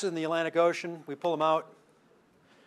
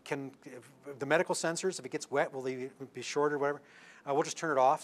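softer, lightly acted staff huddle; imitated huddled conferring; 7 dB quieter than usual. Medical staff discussing the sensors, in an imitated quiet huddle. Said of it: "this little quick chat with the medical staff".

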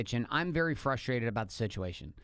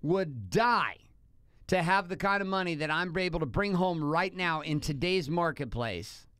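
mock yell, pitched up, at his wife; retold angry yell; 3 semitones higher than usual. Husband reliving yelling at wife in kitchen, mock angry yell. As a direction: replay the kitchen blow-up, hammed a little. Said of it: "yelling at her".

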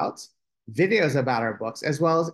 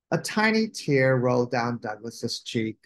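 ordinary delivery

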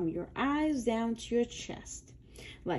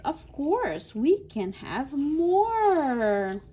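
voicing Blue; 4 semitones higher, 4 dB louder, slower than usual. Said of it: "But Blue says".

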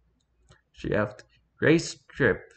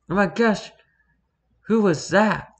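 squealed yell, much higher and a bit louder; high-pitched yell; 10 semitones higher, 4 dB louder than usual. A narrator's reading. Startled cat to whoever woke her, high-pitched yell. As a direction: yell it in a high, girlish character voice. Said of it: "she yelled".

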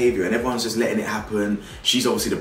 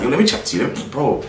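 imitating a pushy guy chatting up a stranger; mock harasser; 5 semitones higher than usual. Mocking the harasser's approach.

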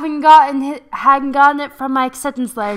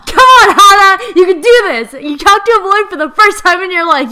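loud, high laughing encouragement; laughing cheer; 5 semitones higher, 9 dB louder than usual. Real, not acted. S1 cheers Hana on.

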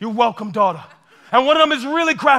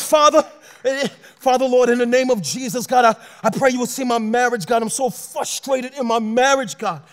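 acted anguished prayer. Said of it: "this is what he wants from you".

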